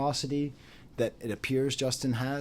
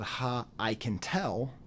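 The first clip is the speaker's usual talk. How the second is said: mocking jab; 3 semitones lower, 5 dB quieter, slower than usual. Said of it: "laughed and said".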